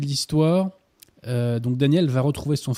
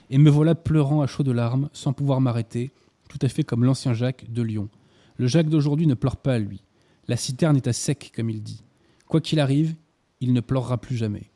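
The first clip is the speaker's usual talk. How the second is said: literary reading aloud. Acted. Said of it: "Vous me permettez que je fasse une petite citation".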